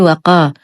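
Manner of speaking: وقا with a light ق and a thin front "a"; thinned qaf. Shown as a demonstration. Teacher showing an error, qaf thinned in وقا. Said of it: "بترقيق القاف".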